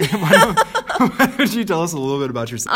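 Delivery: fast, breaking into laughter; laughing. Real, not acted. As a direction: giggle your way through the question. Laughing through his words.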